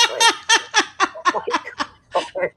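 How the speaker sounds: high laughing exclamation; helpless laughter at the memory. Real, not acted. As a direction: crack up mid-sentence. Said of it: "I'm just laughing".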